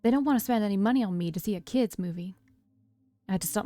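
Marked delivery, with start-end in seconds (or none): 0.0-2.4 put-on apologetic little sister, light country accent; lightly put-on country twang; attempted country accent. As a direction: explain sheepishly with a country lilt. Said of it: "country accent that I was trying to do".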